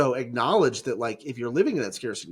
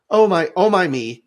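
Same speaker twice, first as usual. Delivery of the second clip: a raised, fretful Jesus voice; mock-anxious Jesus, a touch higher and louder; fretting Jesus; 6 semitones higher, 8 dB louder than usual. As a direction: play Jesus worrying over his friends. Jesus voiced watching the storm.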